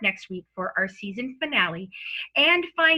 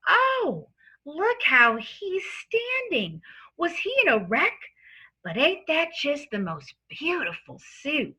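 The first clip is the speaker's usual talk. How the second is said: gossipy juror; 4 semitones higher than usual. Acted. Jury quoted in the story.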